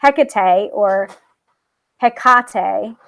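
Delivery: HecatE said with stress on the first syllable, HEK-uh-tay; common pronunciation. Shown as a demonstration. Showing viewers the common way to say the goddess's name. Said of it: "Most say".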